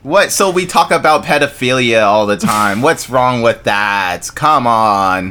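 put-on Jewish accent, drawn-out protest; a light mock Jewish accent. Shown as a demonstration. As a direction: complain in a hammed-up Jewish accent. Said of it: "That's my Jewish accent".

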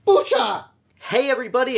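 squealed high intro shout; high excited yell. Acted. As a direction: shriek it up high. Shouted podcast opener.

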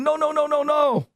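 resist being pulled up, crying out; mock scream. Old man crying out as the Hasid drags him from his chair. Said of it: "the old man's screaming".

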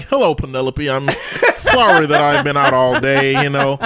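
a hint of a rapper cooing sweetly to a pet fish; mock rapper voice. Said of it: "He just pretending to talk like that".

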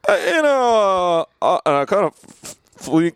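Obama impression. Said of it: "this is President Obama".

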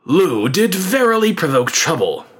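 lightly voiced professional politician; careful politician. A narrator's reading. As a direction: speak as a carefully noncommittal statesman. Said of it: "replied with all the carefully worded strategic ambiguity".

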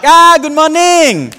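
high, loud, drawn-out "morning", last syllable hit hard; delighted recognition, landing hard on the end of "morning"; slow, ringing imitation with "morning" stressed at the end; end-stressed broken English. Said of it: "They emphasize the end".

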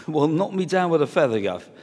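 lightly voiced gruff fisherman, dry sarcasm; mock sarcastic reply. Tired fisherman sarcastically answering the stranger's advice, lightly voiced. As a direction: throw it back with a hint of scorn. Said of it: "or whatever they'd have said".

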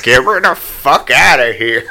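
loud, laughing mock plea; half-laughed imitated plea; laughing mock groan. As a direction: laugh through a begging old man. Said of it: "And he's just like".

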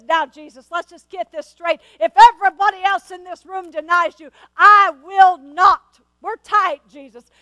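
a brash disciple promising he won't fail; Peter boasting. Retold or imitated. Preacher voicing Peter's loud boast to Jesus. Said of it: "that's her rendition".

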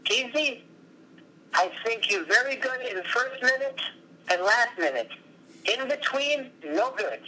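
put-on high-pitched Russian accent; teasing Russian coach with a thick Russian accent; Stanislav's Russian accent. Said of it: "with a really sh-, high voice in a Russian accent".

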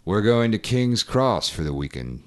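light Morgan Freeman impression. Shown as a demonstration. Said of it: "straight Morgan Freeman".

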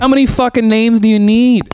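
high-pitched exasperated protest; mock outrage. Real, not acted. Producer teasing sisters about their names, mock outrage.

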